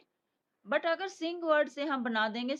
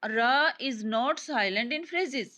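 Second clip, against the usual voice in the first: reading the rule out word by word, very slowly; slow, deliberate rule reading; slow dictation; much slower than usual. Shown as a demonstration. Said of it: "कहते हैं".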